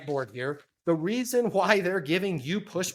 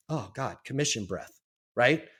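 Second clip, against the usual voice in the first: usual speaking voice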